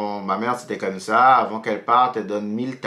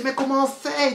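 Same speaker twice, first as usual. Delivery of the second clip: panique; 12 semitones higher than usual. Retold or imitated. Copain affolé, cité.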